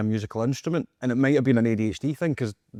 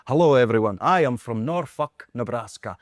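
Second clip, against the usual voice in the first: Doctor Nick voice. Retold or imitated. Retelling his childhood audition, mild American accent. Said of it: "like Doctor Nick for The Simpsons".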